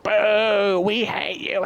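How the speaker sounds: high, loud jeering boo; mock crowd booing. Wrestling fans booing the villain, high loud mock jeer.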